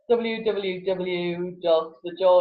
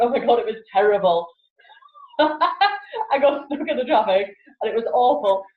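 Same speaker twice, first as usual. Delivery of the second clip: higher, cheerful, laughing through the complaint; 4 semitones higher, 3 dB louder than usual. Retold or imitated. Arriving at the office amused by the traffic, laughing. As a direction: tell the bad news with a giggle. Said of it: "do you wanna be the person who arrives, but".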